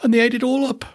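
small bear cub in a high voice; high, upset little bear. Acted. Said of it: "said Little Bear".

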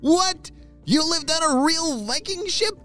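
amazed pup. A narrator's reading. A pup can't believe grandpa lived on a Viking ship, high amazed. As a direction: gasp out the question in wonder. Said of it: "said one of the pups".

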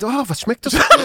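a laughing imitation of the friend; imitating friend. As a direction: tease him by copying his words. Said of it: "hast du gesagt".

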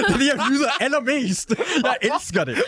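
high, giggly gushing; giggling about loving reality TV; laughing while talking. Real, not acted.

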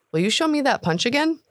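put-on high, eager young voice; boy begging the cook to show the punch, high eager voice; eager orc boy. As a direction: ask like a thrilled kid.

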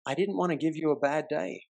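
gentle reassurance; soft sincere. Retold or imitated. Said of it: "I said to her".

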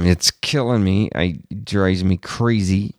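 words pushed through clenched teeth; talking through teeth. Real, not acted. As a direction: keep teeth together while speaking. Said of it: "I'm talking through my teeth 'cause it makes me angry".

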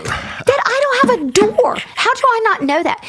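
high, laughing and incredulous; giggling through the words; laughing disbelief. Real, not acted. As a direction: laugh at how silly it was. Laughing at herself.

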